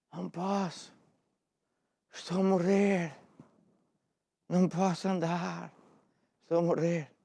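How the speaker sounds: feeble, failing, very weak and faint voice. Speaker retells a man's reply to her invitation, imitating Ambrósio's very weak voice. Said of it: "com uma voz muito fraca".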